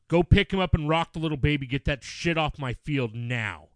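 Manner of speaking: mild mock yell, slowing to the end; retold scream. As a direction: retell a furious order without really screaming. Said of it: "I walked over screaming".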